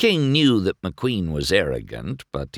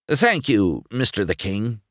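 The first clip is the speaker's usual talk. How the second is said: cocky rookie; 5 semitones higher than usual. Acted. Rookie thanking.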